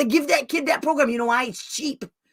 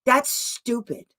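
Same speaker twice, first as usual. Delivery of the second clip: dismissive; 5 dB quieter, slower than usual. Shown as a demonstration. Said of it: "come back and say".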